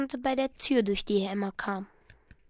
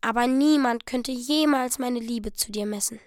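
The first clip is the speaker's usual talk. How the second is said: earnestly tender. Acted. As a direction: speak gently, from the heart. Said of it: "auf einmal ernsthaft zärtlich". (ernsthaft zärtlich, plötzlich sanft)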